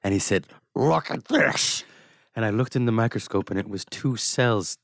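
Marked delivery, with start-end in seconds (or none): 0.7-1.8 stretched out slow and hushed; slow mock line. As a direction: drag each word like showing a secret. Retold Ang's slow line.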